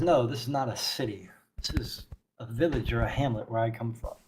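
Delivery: quiet, lightly voiced character retake; understated solemn zealot; stern zealot priestess, measured. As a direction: correct them softly with grave certainty. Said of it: "She says".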